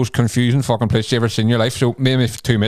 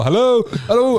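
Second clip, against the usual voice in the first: calling out; 11 semitones higher than usual. Retold or imitated. Climbing through hostel window, calling high to find someone. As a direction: call into the room to find anyone.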